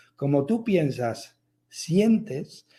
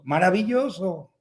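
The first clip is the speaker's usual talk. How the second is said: mock child's call; 3 semitones higher than usual. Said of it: "grita algo". (llamada fingida de niño, alargada)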